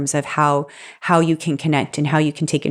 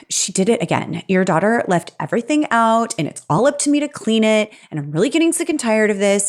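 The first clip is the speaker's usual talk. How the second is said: mock exasperated outburst, higher and fast; a hammed-up angry partner venting; exploding complaint; 5 semitones higher than usual. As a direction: rattle off an accusing blow-up.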